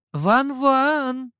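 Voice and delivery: put-on high, loud girlish call from a distance; girl calling from afar. A narrator's reading. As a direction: call out like a girl far behind them. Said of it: "Где-то позади раздался девичий голос". (девичий голос, зовёт издалека)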